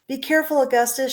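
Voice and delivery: high warning shout; father shouting. A narrator's reading. Father warning his son at the river's edge. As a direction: warn the boy sharply. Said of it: "shouted Mister Gloop".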